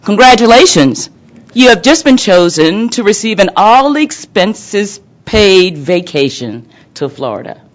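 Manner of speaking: high, loud robocall sales pitch; booming prize announcer. Retold or imitated. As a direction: sell the prize like a recorded ad. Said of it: "a recording will follow saying something like this".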